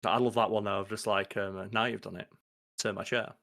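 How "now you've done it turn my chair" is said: slightly lower, restrained delivery; understated, low-key line reading; quoted deadpan line. Retold or imitated. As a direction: lightly imitate a deadpan TV character. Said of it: "his delivery on that is absolutely".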